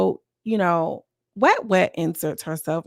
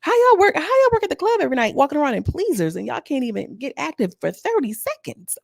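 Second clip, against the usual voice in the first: exasperated rant; 5 semitones higher than usual. Retold or imitated. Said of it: "I'm like".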